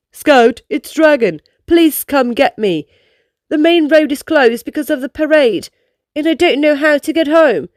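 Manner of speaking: lightly voiced dragon, a little worried and pleading; upset plea. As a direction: plead mildly upset into the phone. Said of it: "she cried into the phone".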